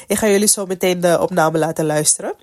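talking through a blocked nose; stuffy nose. Real, not acted. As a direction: speak with a stuffed-up nose from a cold. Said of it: "mijn neus is verstopt".

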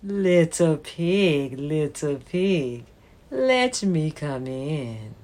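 lightly voiced slow, low wolf; a hint of a sly wolf. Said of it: "He knocked at the door and said".

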